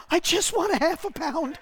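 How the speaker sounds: high, laughing mock plea; flustered customer. Man at Food Lion pleading for ham, high laughing plea. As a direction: squeak it out through laughter. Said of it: "He says".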